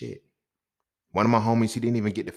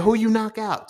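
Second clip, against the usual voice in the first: retold surprised question; 13 semitones higher, 8 dB louder than usual. Asking the friend in disbelief.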